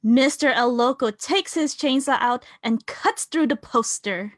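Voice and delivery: normal talking voice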